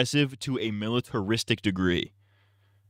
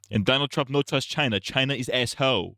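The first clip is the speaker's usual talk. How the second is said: mock Trump; 5 semitones higher than usual. Mocking Trump broken English.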